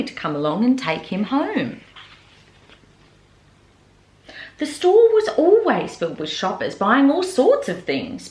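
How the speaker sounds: gentle storybook narration; reading to children. A narrator's reading. Librarian reading a picture book aloud to children.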